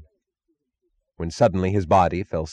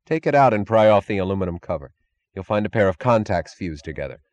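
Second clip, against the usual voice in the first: brusque engineer tone. Acted. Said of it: "brusque, competent tone of an engineer".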